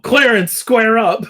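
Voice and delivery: mock challenge bellowed down a hallway; yelled challenge. Calling out an old man at a nursing home, mock yelled challenge. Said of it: "you yell out".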